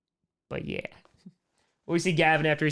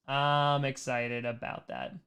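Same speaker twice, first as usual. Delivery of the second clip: slow repeat; 6 dB quieter, slower than usual. Shown as a demonstration.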